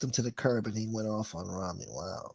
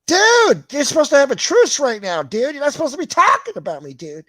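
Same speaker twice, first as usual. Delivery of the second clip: high mock shout; 14 semitones higher, 10 dB louder than usual. Scolding someone mid-truce.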